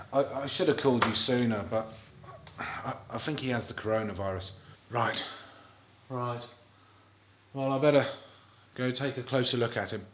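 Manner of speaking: a low, quiet, grave doctor's voice; lightly voiced doctor. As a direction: deliver the bad news like a sombre doctor. Plays the doctor scene.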